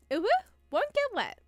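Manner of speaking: put-on high, fast, eager child voice; excited little girl. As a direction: bounce with excitement like a kid begging to go. Child character promising obediently.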